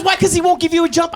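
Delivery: high, disbelieving wife; lightly voiced exasperated wife; incredulous wife. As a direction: question it in disbelief.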